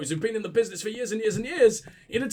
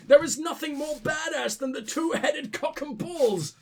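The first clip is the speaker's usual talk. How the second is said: excited; 5 semitones higher than usual. Real, not acted. Exclaiming over absurd armor.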